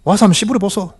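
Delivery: high-pitched Gyeongsang retort; imitated Gyeongsang speech; Gyeongsang dialect. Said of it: "경상도 말로".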